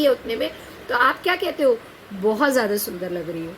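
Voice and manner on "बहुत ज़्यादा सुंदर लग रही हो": lower, gently meant praise to a friend; sincere compliment. Shown as a demonstration. Teacher voicing a sincere compliment to a friend, gently warm. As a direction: say it honestly, as real admiration. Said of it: "शब्द एक ही है ज़्यादा".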